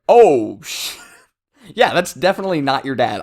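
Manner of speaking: startled "Oh" then breaks into a laugh; shocked outburst dissolving into laughter; laughing reaction. Retold or imitated. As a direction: burst out laughing mid-line, fast. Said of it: "is like".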